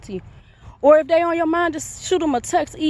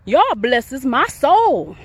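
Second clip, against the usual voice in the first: slow heartfelt; much slower than usual. Real, not acted. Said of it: "before I get too emotional".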